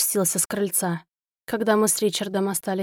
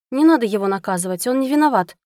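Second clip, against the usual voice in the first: fast and louder, pleading; urgent exclamation; 4 dB louder, faster than usual. Acted. Wife defending the dog from her husband, quick loud plea. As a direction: rush in to defend him. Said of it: "воскликнула я".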